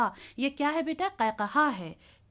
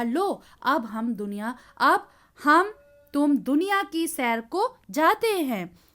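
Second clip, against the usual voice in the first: slow, louder wind voice with a burst on अब हम; 4 dB louder, slower than usual. Acted. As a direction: draw the words out like a boastful wind. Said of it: "फिर हवा ने कहा". (धीमी, ज़ोरदार हवा की आवाज़)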